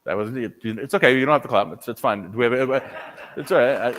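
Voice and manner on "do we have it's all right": ordinary talk, nothing marked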